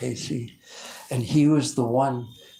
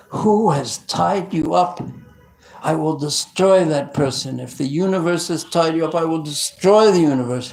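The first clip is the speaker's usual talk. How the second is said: higher, loud furious threat; angry vow; 4 semitones higher, 6 dB louder than usual. Acted. Balaram finding Krishna tied up, furious loud threat. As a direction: roar out the vow to destroy. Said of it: "He was so angry".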